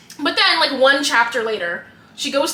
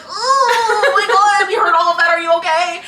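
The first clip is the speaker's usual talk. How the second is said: mock alarmed concern; 9 semitones higher, 7 dB louder than usual. Friend rushing out to check on her, mock alarmed. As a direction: fuss over her friend, hammed up. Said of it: "she's like".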